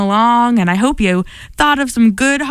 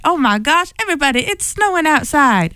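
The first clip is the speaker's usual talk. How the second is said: a light, faked Southern accent, a bit faster; mock Southern accent; 5 semitones higher than usual. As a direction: playfully put on a Southern accent for an excited friend. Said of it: "She does not have a Southern accent".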